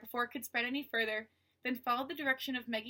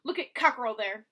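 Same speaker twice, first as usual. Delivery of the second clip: a hint of a rasping, louder menacing voice; lightly voiced rasping thug; rasping villain; 8 dB louder than usual. Basta taunting Mo through the wall, light rasping menace. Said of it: "the rasping voice again".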